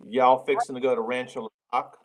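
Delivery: Arkansas twang, drawled; Arkansas accent. Retold or imitated. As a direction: lay on the Arkansas country twang. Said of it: "how would you say it in Arkansas".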